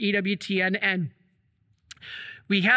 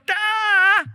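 sudden high, loud outburst of "ah"; mock outburst of anger, much higher and louder; frustrated shout; 10 semitones higher, 6 dB louder than usual. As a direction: blurt it out like you are about to explode. Priest about to explode at cameraman.

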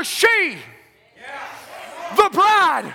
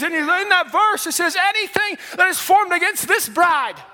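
fervent preaching; 2 semitones higher than usual. Acted. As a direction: build it like a revival preacher. Preaching at full force.

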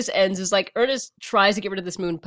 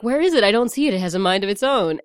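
put-on vaguely European accent; faster than usual. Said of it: "'Cause he's, like, vaguely European".

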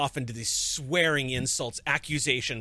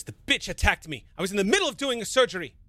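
indignant outburst; 7 semitones higher, faster than usual. Acted. LaRoche protests indignantly.

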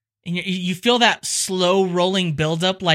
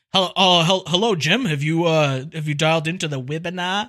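put-on Australian accent; 3 semitones lower than usual. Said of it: "speak with an Australian accent".

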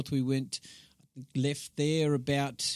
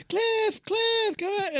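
high calling-out yell across the beach; yelling for Cliff; much slower than usual. Retold or imitated. Mum yelling to Cliff out on the rocks, high urgent call. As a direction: call her husband in from fishing. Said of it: "she was yelling out to Dad".

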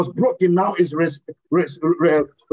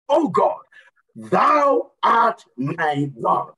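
crying prayer; 2 semitones lower, much slower than usual. Acted. Preacher repeats prayer, crying.

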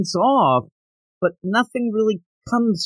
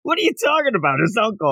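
mock bafflement; 5 semitones higher, faster than usual. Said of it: "I'm like".

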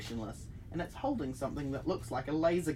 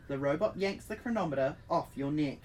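ordinary talk

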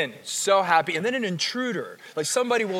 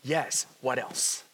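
lower, softer, slow "Yes, what else?"; eager yes; 8 semitones lower, 7 dB quieter, slower than usual. Retold or imitated. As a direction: offer it freely and gently. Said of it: "we said".

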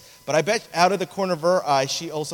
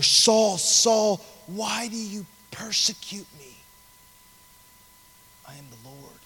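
tender correction; 3 semitones higher than usual. Acted. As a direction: call out, then soften right down. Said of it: "there's a tenderness in the voice of God".

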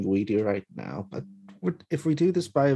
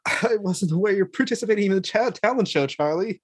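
quick, higher chatty voice; a hint of a prim neighbor; lightly voiced neighbor; 6 semitones higher than usual. GM voices Lewis unmasked.

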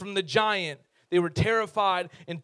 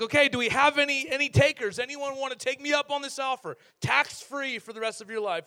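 king calling out; 6 semitones higher than usual. Retold or imitated. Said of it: "And Saul's like".

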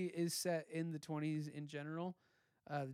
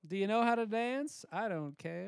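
Hollywood talent scout; 4 dB louder than usual. Retold or imitated. Acting talent scout pitch.

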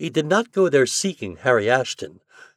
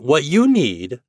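hearty; 4 semitones higher, 5 dB louder, slower than usual. Acted. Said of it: "said Ford heartily".

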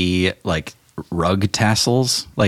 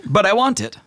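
high, fussy genie voice; 14 semitones higher than usual. Acted. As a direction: whine it like a picky genie. Genie whines for chandelier.

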